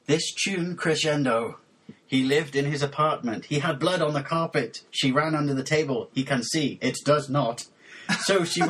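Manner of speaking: measured, over-deliberate poem reading; deadpan lyric recitation. Acted. Host reading mangled lyrics for co-host to guess, measured mock-serious recitation. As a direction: recite each phrase as a separate solemn statement.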